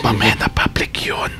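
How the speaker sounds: hushed whisper on air. Pretend. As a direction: whisper it so nobody hears. Hushed aside to lover on air.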